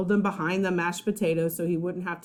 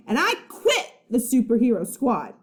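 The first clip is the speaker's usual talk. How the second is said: angry quitting; 3 semitones higher, 3 dB louder than usual. Acted. Boy quitting the squad in anger, loud. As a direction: slam the door with words.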